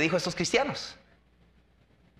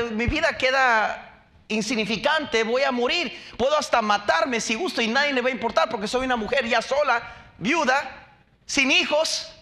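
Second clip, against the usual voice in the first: higher, pushy complaining voice; Job's wife pleading with him; lightly voiced bitter wife; 5 semitones higher than usual. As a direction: grumble like a frightened wife.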